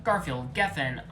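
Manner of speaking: stubborn. Acted. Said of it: "with stubbornness".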